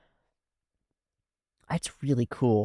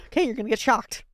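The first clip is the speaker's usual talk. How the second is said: higher, dry mock warning; veteran electrician; 10 semitones higher, faster than usual. Veteran electrician to rookie, dry mock warning. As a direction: warn him like a weary old hand. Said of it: "the guy goes".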